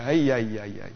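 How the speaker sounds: worried Jewish guy. Retold or imitated. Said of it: "you know, like that".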